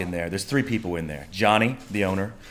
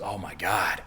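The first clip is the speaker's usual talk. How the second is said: higher, raving about the club; excited buddy; 8 semitones higher than usual. Retold or imitated. Buddy raving to the sleepy teller about the club, higher. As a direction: gush about last night. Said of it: "and he goes".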